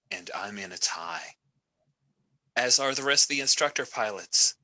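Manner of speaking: wry commander addressing trainees over comms; lightly voiced instructor pilot. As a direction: greet the squadron with measured authority. Game master voices instructor pilot.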